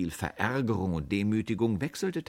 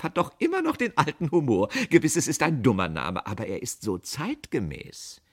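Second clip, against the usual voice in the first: jovial, louder, settling toward the end; smiling; 7 semitones higher, 5 dB louder than usual. A narrator's reading. Boss soothing the angry customer, smiling. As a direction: brush it off with a smile. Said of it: "lächelte der Chef".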